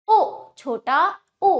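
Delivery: उ cut short and quick; short, projected उ for pupils; short vowel demonstration. Shown as a demonstration. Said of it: "जो जल्दी उच्चारण होता है".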